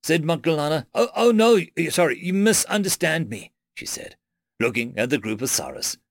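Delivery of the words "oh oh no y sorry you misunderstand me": surprised. Acted. Doctor realises the misunderstanding.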